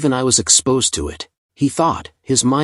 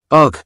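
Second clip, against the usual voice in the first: short, loud grunt of pain; 5 semitones higher, 6 dB louder than usual. A narrator's reading. Ben hit by a poisoned needle, pained grunt. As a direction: grunt as if struck from behind. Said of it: "He let out a pained scream".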